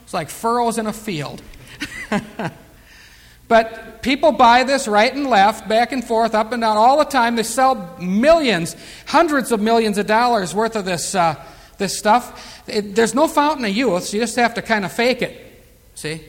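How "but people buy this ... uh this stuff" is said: punchy sermon rant; preaching. Acted. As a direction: drive home the waste of money. Preacher railing against cosmetics.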